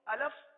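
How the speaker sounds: الف with its second vowel turned to a short "a", "alaf"; mispronounced الف, ending "-laf"; wrong alif pronunciation. Shown as a demonstration. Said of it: "یہ غلط ہے".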